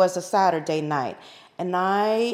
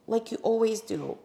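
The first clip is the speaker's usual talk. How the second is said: ordinary talk, nothing marked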